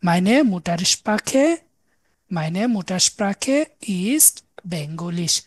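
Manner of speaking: German drawn out word by word, very slow; slow model sentence. Shown as a demonstration. Teacher modelling German to students, very slow. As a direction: spell the sentence out slowly for learners. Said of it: "আমার মাতৃভাষা হচ্ছে বাংলা".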